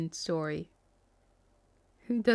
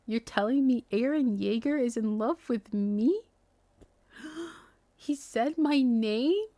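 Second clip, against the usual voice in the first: gasping fangirl; 3 semitones higher than usual. Pretend. Gushing as fanfic reader.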